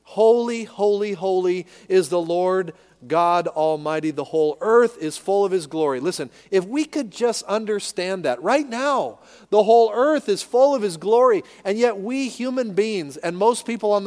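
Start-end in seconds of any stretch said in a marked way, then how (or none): 0.0-6.0 lifted, proclaiming the seraphs' cry; proclaimed. Acted. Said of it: "God is holy through and through". 9.5-11.4 louder, higher, driving the verse home; forceful preaching. Real, not acted.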